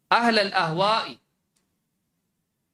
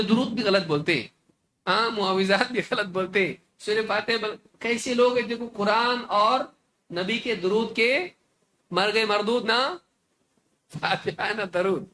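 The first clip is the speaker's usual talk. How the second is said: mock accusing opponent. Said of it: "بولے".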